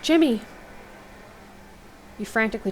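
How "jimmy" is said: high, loud cry of the name; shouting a dying friend's name; yell. A narrator's reading. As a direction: call him back, desperate. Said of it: "You yell again".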